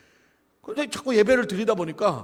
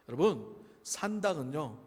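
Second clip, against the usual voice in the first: usual speaking voice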